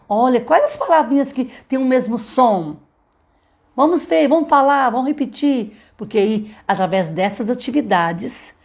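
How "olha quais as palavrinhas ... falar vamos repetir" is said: high, lively classroom voice; cheerful prompt to a class, pitched high; teacher to child. Shown as a demonstration. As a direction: coax the kids to join in, pitch up. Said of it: "Mas se você falar assim".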